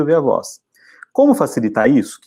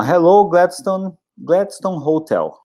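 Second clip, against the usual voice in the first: slow, higher, polite hotel receptionist answering the phone; receptionist greeting; 6 semitones higher, much slower than usual. Shown as a demonstration. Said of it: "Ele sempre atende assim".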